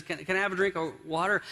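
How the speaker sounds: quick, mildly exasperated request, acted out; mildly frustrated. Husband asking his wife yet again, mildly frustrated. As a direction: ask with a touch of impatience, words tumbling a little. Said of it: "he's getting really frustrated now".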